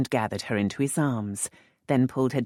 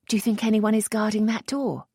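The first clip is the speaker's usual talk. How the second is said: a touch higher, hushed question; lightly voiced young lady; 9 semitones higher, 3 dB louder than usual. A narrator's reading. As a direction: Lisette asking the earl in the dark, lightly higher. Lisette voiced by narrator.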